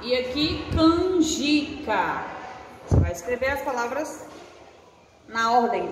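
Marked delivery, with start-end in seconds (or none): 0.7-2.2 canjica stretched slowly, syllable by syllable; slow sounding out. Shown as a demonstration. Teacher to young pupils, sounding out slowly. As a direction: draw out canjica for the class. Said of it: "teacher sounds out word for kids".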